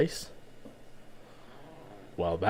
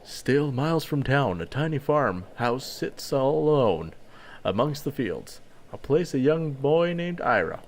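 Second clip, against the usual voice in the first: story narration. A narrator's reading.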